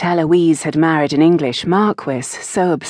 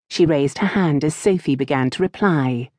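usual speaking voice

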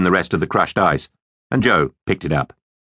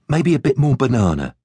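Joe; 7 semitones higher than usual. Acted.

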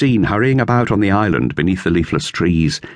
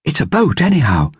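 higher, lightly voiced girl; girl's voice, lifted higher; Dorothea; 8 semitones higher than usual. A narrator's reading. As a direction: read it as young Dorothea. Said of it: "said Dorothea".

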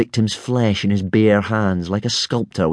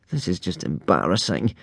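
inward thought; 3 semitones lower, 6 dB quieter than usual. A narrator's reading. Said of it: "thought Hiccup".

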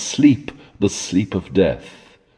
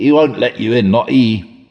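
growled warning; 4 semitones higher, 4 dB louder than usual. A narrator's reading. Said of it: "growled he".

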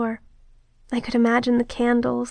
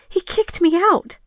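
higher-pitched, wounded retort; raised, indignant defence; hurt protest; 7 semitones higher than usual. Acted. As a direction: protest the blame, upset. Protesting an accusation.

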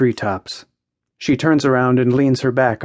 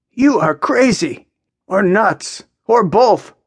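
high, lively mock verdict; amused, laughing; 9 semitones higher, 4 dB louder, slower than usual. A narrator's reading. Jack can't stop laughing at Maya, amused. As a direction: tease her as if tickled, pitch up. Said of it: "Jack can't stop laughing".

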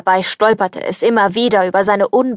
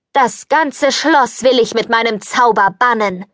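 mild solemn proclamation. Acted. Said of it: "verkündete die Fee".

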